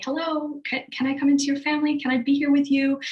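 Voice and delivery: gentle soul asking. Retold or imitated. A soul asking to join family.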